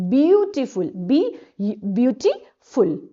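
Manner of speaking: "ब्यूटीफुल" slowed and broken into parts; syllable by syllable. Shown as a demonstration. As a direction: sound out "ब्यूटीफुल" in pieces, beau-ti-ful. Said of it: "two syllable वाला word है". ("ब्यूटीफुल" को टुकड़ों में धीरे बोलें)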